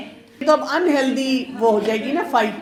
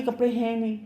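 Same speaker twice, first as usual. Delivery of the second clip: soft, smiling answer, much softer; with a smile; 6 dB quieter than usual. Shown as a demonstration. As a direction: say it sweetly through a smile. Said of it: "تو مسکرا کے کہ". (مسکرا کر نرمی سے)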